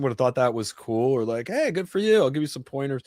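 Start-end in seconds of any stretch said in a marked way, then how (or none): 1.5-3.0 higher-pitched, mock-friendly quote; imagine a supportive colleague chiming in; friendly encouragement. Imagined colleague offering pointers, friendly encouragement.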